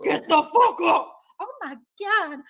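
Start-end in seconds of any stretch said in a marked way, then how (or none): 0.0-1.1 a band's singer. Retold or imitated. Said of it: "You sound like the dude from a band".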